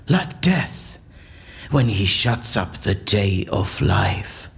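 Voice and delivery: slow, solemn Shakespearean declamation; theatrical verse recitation. Acted. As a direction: recite the verse like a stage actor casting a spell. Recites Shakespeare's potion speech.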